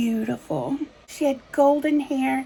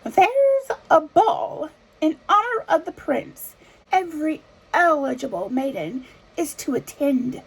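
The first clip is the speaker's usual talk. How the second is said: stepmother announcing; 2 semitones higher than usual. Acted. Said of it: "stepmother announced".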